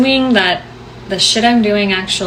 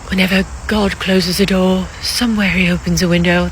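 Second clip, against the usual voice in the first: bad Sound of Music accent. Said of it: "That's a terrible, terrible accent".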